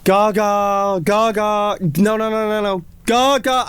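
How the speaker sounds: slow, fed-up "no, no, Gaga"; imitating Jimmy. Producer Jimmy correcting off-key singing, exasperated. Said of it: "and Jimmy was like".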